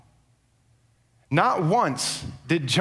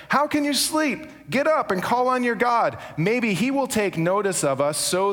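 urgent captain; 5 semitones higher than usual. Acted. Captain rousing sleeping Jonah.

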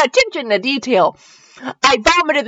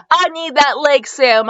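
higher-pitched, mildly insistent plea; insisting; 6 semitones higher, slower than usual. Acted. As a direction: insist with a touch of urgency. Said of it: "I insisted".

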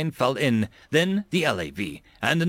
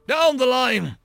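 high, raised yell; shouting; 11 semitones higher, 4 dB louder, slower than usual. A narrator's reading. Colonel directs his driver onward, shouting. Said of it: "Bradford heard him shouting".

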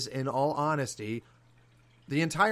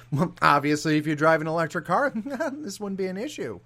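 hammed-up Granholm impression, laughing at the end; mocking Granholm; 4 semitones higher, 5 dB louder than usual. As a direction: mimic her breezy dismissal, mockingly. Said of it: "And her response was".

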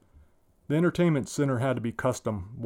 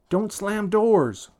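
scolding shout; 9 semitones higher, 5 dB louder, much slower than usual. Acted. Mother scolding son.

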